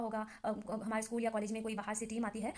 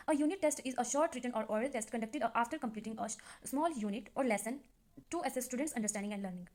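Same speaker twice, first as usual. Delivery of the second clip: reads the definition word by word, very slowly; measured classroom dictation pace; slow dictation reading; much slower than usual. Shown as a demonstration. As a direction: dictate it slowly so students can copy it down.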